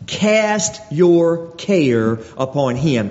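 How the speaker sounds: slow scripture reading. Acted. Pastor reads verse aloud.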